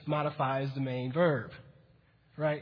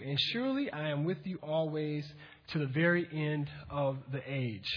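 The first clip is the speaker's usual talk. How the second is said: scripture reading; 2 semitones lower than usual. Acted. Pastor reads the Great Commission aloud, measured. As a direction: read the verses steadily.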